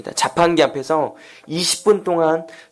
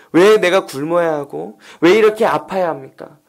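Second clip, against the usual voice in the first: raised, insistent complaint to God; anguished questioning; 4 semitones higher, 3 dB louder than usual. Retold or imitated. Struggling student asks God why life hurts, anguished protest. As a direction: protest like a re-enacted desperate prayer. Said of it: "하나님께 묻고 또 물었습니다".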